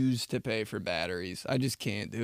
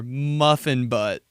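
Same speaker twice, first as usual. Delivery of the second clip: savoring it; 4 dB louder, much slower than usual. Real, not acted. Savoring the nickname.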